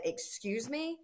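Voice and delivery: high, soft, rising disbelief; affronted shopper. Retold or imitated. Offended shopper to a farmer in the store, affronted.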